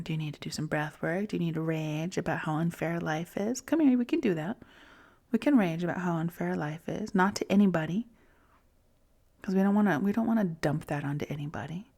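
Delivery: hushed and tender, almost a breath. Acted. Soothing her inner child in a whisper. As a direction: whisper gently, like calming a child. Gently parenting herself, whispered comfort.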